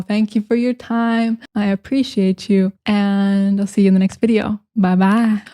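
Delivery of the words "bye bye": imitation Southern drawled "bye-bye"; Southern accent. Shown as a demonstration. Vlogger signing off to viewers, imitation Southern accent. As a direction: sign off with a put-on Southern accent. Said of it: "me trying to imitate a Southern accent".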